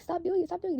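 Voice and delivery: retold yelling from a dream. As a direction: yell at him to stop. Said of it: "I'm yelling at him".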